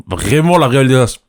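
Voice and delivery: se mord la langue en parlant; langue mordue. Real, not acted. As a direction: mot coupé par une morsure de langue. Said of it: "je me suis mordu la langue". (vient de se mordre la langue)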